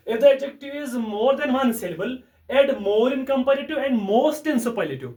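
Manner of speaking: slow dictation. Shown as a demonstration. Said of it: "बस इतना ही याद रखना है".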